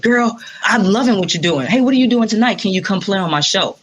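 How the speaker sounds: a hint of his excited manner; Sinbad. Musician retelling the comedian inviting her on stage, light impression. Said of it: "Is that how he speaks to me".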